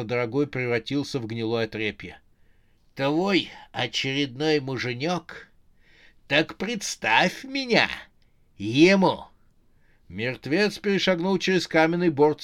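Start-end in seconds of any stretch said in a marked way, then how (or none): 3.0-9.3 slow, demanding walking corpse; dead first husband. Acted. Dead husband confronts Rozha. (оживший мертвец, медленно и требовательно)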